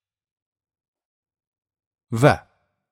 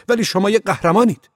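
high, loud woman's cry; loud call; 13 semitones higher, 6 dB louder than usual. A narrator's reading. Reporter calls to Ove through the door, loud and high. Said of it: "با صدای بلند گفت".

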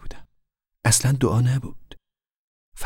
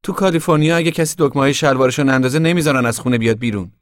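mildly mocking mother, raised pitch; 5 semitones higher, 5 dB louder than usual. A narrator's reading. Mother teasing grandfather about his buttons, mocking. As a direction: tease him with light scorn. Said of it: "مادر با لحنی استهزاآمیز گفت".

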